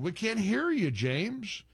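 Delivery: calling out to caller. Real, not acted. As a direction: call out to a bad line. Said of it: "your phone is muffled".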